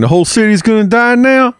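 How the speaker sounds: high, loud startled squeal; sudden high-pitched alarm at the doom; shocked disbelief. Acted. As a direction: react like the news just hit you hard. Alarmed at the city dying.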